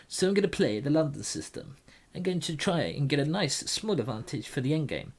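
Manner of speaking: a light, playful fake Norwegian accent; mild mock Norwegian voice while explaining moves. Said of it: "Why am I talking like this?".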